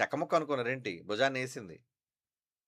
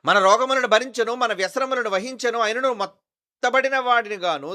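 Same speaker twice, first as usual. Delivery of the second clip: loud scripture reading; 4 semitones higher, 7 dB louder than usual. Acted. Pastor reading Isaiah to his congregation, loud preaching. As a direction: proclaim each line to the back row.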